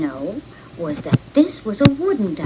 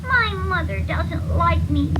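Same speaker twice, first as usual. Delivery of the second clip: sad duckling; 6 semitones higher than usual. Acted. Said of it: "said the ugly duckling".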